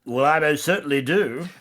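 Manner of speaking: clipped mock British "most certainly"; a hammed-up British reply; British accent. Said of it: "put on a strong British accent".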